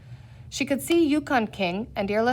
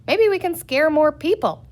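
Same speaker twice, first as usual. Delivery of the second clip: wicked; 5 semitones higher, 6 dB louder than usual. A narrator's reading.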